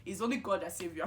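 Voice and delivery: lightly voiced mom in her accent, amused; imitated mother. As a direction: pronounce it like a mother's verdict. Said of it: "And my mom is like".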